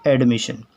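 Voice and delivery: एडमिशन said clearly as ed-mi-shan; teacher models एडमिशन, ed-mi-shan; एडमिशन as ed-mi-shan, dictionary form; model pronunciation. Shown as a demonstration. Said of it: "इसका उच्चारण आपको यही मिलेगा".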